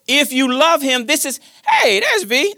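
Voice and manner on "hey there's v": sudden high-pitched happy greeting; real pleased surprise, much higher; delighted surprise. Real, not acted. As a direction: break off as you spot your grandchild, voice jumping up. Spots grandson, breaks off to greet.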